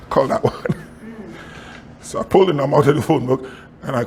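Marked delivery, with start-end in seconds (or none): 0.1-0.6 whispered God's voice. Retold or imitated. Pastor whispering God's instruction to call the bank. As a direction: whisper it like a holy hint. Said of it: "And he said".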